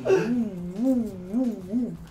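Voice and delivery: spooky ghost noises. Pretend. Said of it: "vai ficar, tipo, girando assim".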